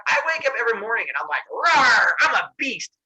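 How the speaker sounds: loud, high, quick boast; mock beast roar. Boasting to Prometheus about waking up as a beast, mock roar. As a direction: roar it like a self-declared beast.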